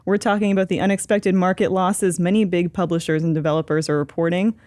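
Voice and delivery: NPR host voice. Acted. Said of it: "That was a good N P R".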